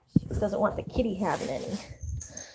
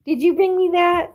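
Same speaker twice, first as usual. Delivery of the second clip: high, loud sing-song question; 7 semitones higher, 9 dB louder than usual. Real, not acted. Owner asking her dog about the toy, high baby talk. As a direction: coo it up high at the pup.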